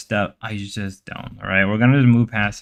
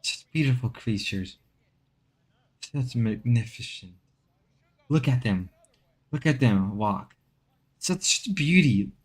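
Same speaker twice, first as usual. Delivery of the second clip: nature documentary. Pretend. Documentary narration continues.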